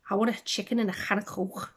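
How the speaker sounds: a hint of a comic's mock Scouse accent; Jimmy Carr's Scouse bit. Book reviewer attempting a comedian's catchphrase, lightly mock Scouse accent. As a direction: have a rough go at Scouse. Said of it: "do is the Jimmy Carr thing".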